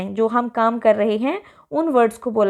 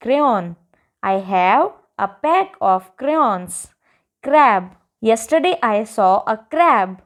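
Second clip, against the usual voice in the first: put-on each sentence read out very slowly for children; slow dictation; much slower than usual. Teacher reading model sentences to young pupils, very slow and clear. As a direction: spell the sentence out word by word like a patient teacher.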